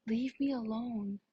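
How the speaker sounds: slow, firm brush-off; drawn-out rebuff. Retold or imitated. Girl retelling refusing a pushy boy, slow and firm. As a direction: stretch each word of the refusal.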